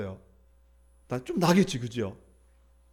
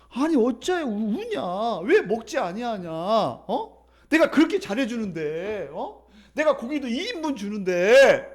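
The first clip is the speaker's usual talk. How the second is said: clueless husband; 2 semitones higher, slower than usual. Acted. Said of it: "이 남편은 눈-, 눈치가 없는 거야".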